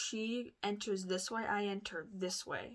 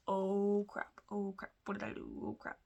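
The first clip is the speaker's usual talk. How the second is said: mock panic. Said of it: "I'm, like, freaking out".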